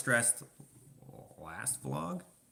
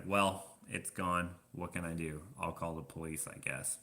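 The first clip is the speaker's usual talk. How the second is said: outwardly unbothered. Retold or imitated. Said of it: "outwardly, I was like".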